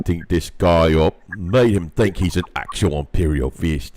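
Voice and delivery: loud rough orc bellow. Acted. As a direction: read it like a brutish orc warboss. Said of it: "God, I love the way you read orc".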